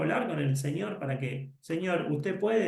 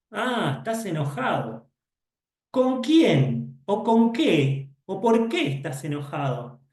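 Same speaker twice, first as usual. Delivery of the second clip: high, loud questioning teacher; teacher asking the angry student why; curious teacher; 4 semitones higher, 3 dB louder than usual. Pretend. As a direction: draw the kid out with eager questions.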